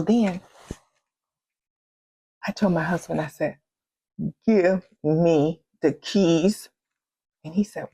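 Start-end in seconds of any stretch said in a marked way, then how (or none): 4.5-6.7 slow, firm, spaced-out order; stern demand. Retold or imitated. Wife ordering her husband to hand over the keys, slow and firm. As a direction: lay down the law, word by word.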